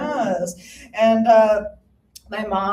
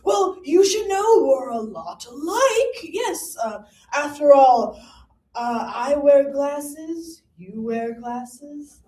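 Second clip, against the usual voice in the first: Franklin ghost; 4 semitones higher, 3 dB louder, slower than usual. Retold or imitated. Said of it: "his ghost continues and he's like".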